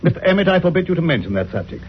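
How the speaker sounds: sharp rebuke. Acted. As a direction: snap at him sternly. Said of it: "I spoke too sharply".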